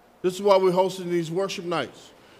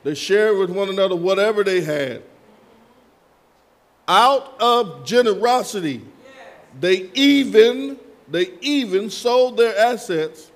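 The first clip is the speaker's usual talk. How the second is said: verse preached with punched words; emphatic preaching; 5 dB louder than usual. Real, not acted. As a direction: drive the scripture home to the congregation.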